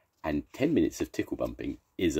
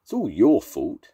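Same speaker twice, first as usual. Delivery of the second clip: indignant accusation; 6 semitones higher, 8 dB louder than usual. Acted. Mister Small accuses.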